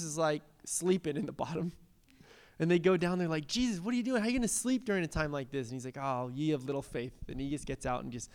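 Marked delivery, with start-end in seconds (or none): 3.5-5.7 higher, hurried disbelieving questions; mild alarmed complaint. Acted. Disciples waking Jesus during the storm, mildly panicked. 6.0-7.1 low, soft, sighing rebuke; unruffled mild reproof. Acted. Jesus to his frightened disciples, quietly unruffled.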